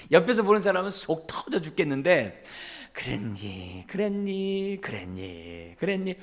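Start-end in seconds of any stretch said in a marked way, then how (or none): 2.9-6.1 soft, even, patient repetition; calm and gentle. Retold or imitated. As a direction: stay unruffled and gentle. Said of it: "톤이 올라간 적이 없어요". (속 터질 만큼 차분하게 반복하는 말투)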